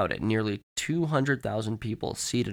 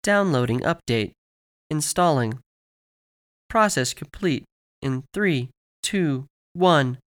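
higher, measured system announcement; automated announcer voice; 4 semitones higher than usual. Acted. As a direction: announce each step like a machine. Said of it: "the voice over the Jumbotron said".

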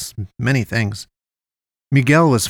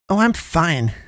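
higher, put-on voice of a sullen friend; sullen denial; 6 semitones higher, slower than usual. A narrator's reading. Poe answers after being asked if she's okay, sullen. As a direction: brush it off sullenly, pitched up.

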